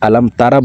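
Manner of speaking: "তারা" with an open "raa" ending; unchanted "তারা" with a plain a; mispronunciation to avoid. Shown as a demonstration. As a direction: demonstrate the faulty "তারা", thin a after the r. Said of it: "বলা যাবে না".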